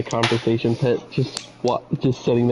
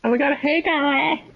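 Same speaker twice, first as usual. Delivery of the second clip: high, loud excited greeting; 13 semitones higher than usual. Acted. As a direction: greet them far too loudly. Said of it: "loud voices are loud".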